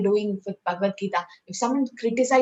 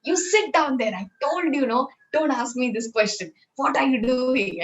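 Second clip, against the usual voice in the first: mock angry guru; 4 semitones higher than usual. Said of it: "the guru became angry".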